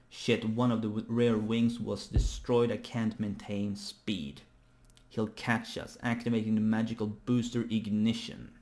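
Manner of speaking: emphatic reading of urgent dialogue; dramatic manga reading. Acted. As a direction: read the alarm out with measured drama.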